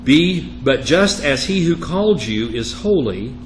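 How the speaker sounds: emphatic, measured reading of Scripture. Acted. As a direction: read the verse out firmly to the class. Reads Scripture aloud.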